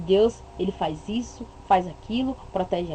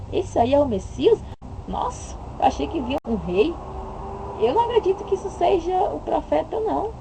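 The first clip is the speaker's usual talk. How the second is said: incredulous, sneering questions; mock scornful doubters; 5 semitones higher than usual. Imitating people who scorn Jesus in his plain clothes, sneering. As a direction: scoff at the poorly dressed Messias.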